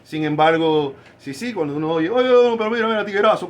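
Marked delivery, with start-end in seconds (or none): 2.1-3.5 higher, louder Dominican street talk; Dominican accent. Retold or imitated. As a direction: imitate a Dominican calling out tiguerazo. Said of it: "Este es dominicano".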